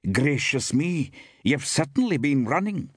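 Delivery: high woman's exclamation; exclaiming woman. A narrator's reading. Woman shopkeeper remarks on a breathless young man, exclaiming.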